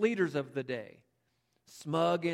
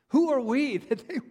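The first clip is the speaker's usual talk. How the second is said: incredulous laugh; 8 semitones higher, 7 dB louder than usual. Retold or imitated.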